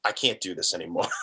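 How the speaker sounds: quietly, a bit low; soft honest admission. Retold or imitated. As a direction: admit it softly, gently. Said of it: "be honest with people and say".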